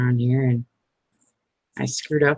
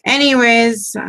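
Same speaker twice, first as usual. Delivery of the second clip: Anyways said higher and louder with a falling end; Anyways, louder and higher, closing the tangent; emphatic anyways; 9 semitones higher, 6 dB louder than usual. Real, not acted. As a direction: snap back on topic with Anyways. Loud restart after tangent.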